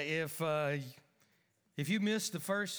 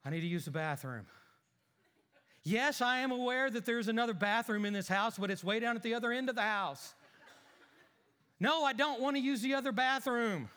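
indignant husband bickering, a bit higher; grumbling husband arguing; 3 semitones higher than usual. Acted. Husband grumbles at his wife about bathrooms, mildly raised. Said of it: "my thespian ability".

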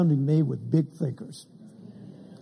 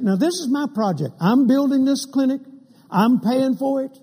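forceful declaration; 6 semitones higher than usual. Retold or imitated. Oral Roberts asserts his project.

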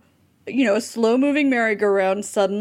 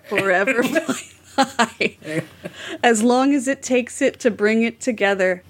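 mildly dramatic recital, phrase by phrase; dramatic lyric reading. Shown as a demonstration. Host reads the repeated chorus for co-hosts, mildly dramatic. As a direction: recite song words with deliberate pauses. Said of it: "dramatically read this".

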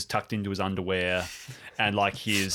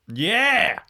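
excited; 13 semitones higher, 8 dB louder than usual. Real, not acted. Excited at having flashlight.

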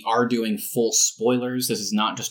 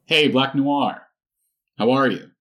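slightly higher, louder superhero voice; a loose Homelander impression, a bit brighter and louder; 5 semitones higher, 5 dB louder than usual. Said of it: "I'll be Homelander talking to Black Noir".

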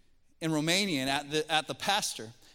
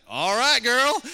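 loud, high cheer of approval; louder and higher, a delighted whoop; cheering all right; 6 semitones higher, 12 dB louder, slower than usual. Retold or imitated. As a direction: cheer her on like a fan. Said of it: "And I'm like".

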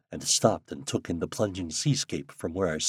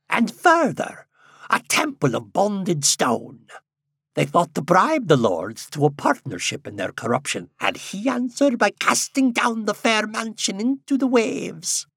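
put-on old man voice; 12 semitones higher, 4 dB louder than usual. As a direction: intone it like an old prophet. Old man tells church fall.

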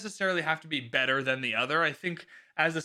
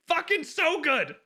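high, loud, slow gush of delight; excited; 13 semitones higher, 4 dB louder than usual. Real, not acted. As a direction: burst out thrilled about the scene. Reacts after reading the chapter.

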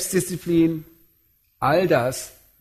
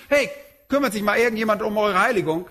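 mock careless; 5 semitones higher, faster than usual. Mock careless delegating God.

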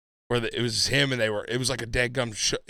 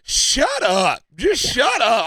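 loud, high, exasperated re-enactment; retold anger; 11 semitones higher, 7 dB louder, much slower than usual. Friend fed up with her declarations of love, angry outburst. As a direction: act out being so mad, voice raised. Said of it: "I was so mad".

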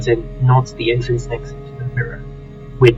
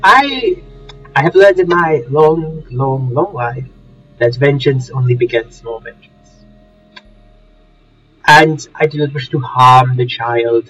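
posh English gentleman voice; home counties accent; slower than usual. Acted. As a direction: speak as a refined old Englishman. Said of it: "this is not a Surrey accent".

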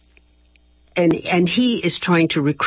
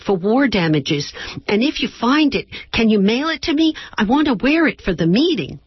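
higher, eager daughter voice; young daughter Renee; 4 semitones higher than usual. Acted. Daughter Renee asking her mom a favor, eager and high. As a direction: pitch it up as the keen college girl.

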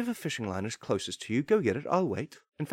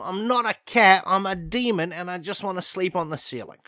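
indignant protest; 4 semitones higher than usual. Acted. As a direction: insist you are not a cat. Demon protesting being called cat.

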